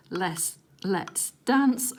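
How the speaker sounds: very slow, savouring Let's dance; slow drawn-out read. Shown as a demonstration. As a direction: stretch Let's dance out slowly.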